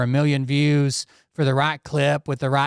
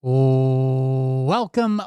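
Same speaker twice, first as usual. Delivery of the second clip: long drawn-out show-host welcome; announcer welcome. Acted. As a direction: stretch it like an announcer.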